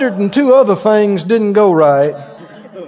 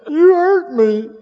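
mock whine; 7 semitones higher, slower than usual. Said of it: "Mo's pretend reply".

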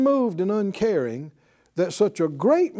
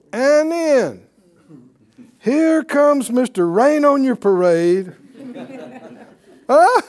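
louder, teasing setup with a laugh; amused build-up; 4 semitones higher, 6 dB louder than usual. Real, not acted. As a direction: hype up the villain's entrance. Mocking the spoilsport ruler.

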